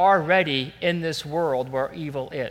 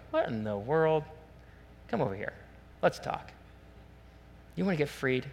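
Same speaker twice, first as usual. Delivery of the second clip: quiet, acted invitation; 2 semitones lower, 10 dB quieter than usual. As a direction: call someone over discreetly, voice dropped. Jesus gently calling the woman over.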